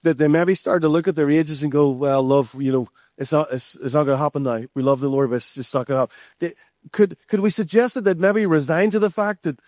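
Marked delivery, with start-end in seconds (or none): 1.9-6.1 low-pitched, resigned acting; a bit discouraged. Preacher plays ageing husband to wife, mildly discouraged. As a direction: gently give up hope, voice sunk low. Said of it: "started to get a bit discouraged".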